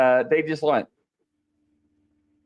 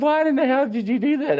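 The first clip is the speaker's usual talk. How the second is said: retold scolding; 10 semitones higher than usual. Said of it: "gave me that evil eye".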